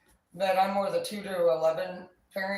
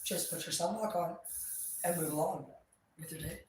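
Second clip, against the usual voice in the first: self-soothing reminder; 8 dB quieter than usual. Retold or imitated. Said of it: "I'm like".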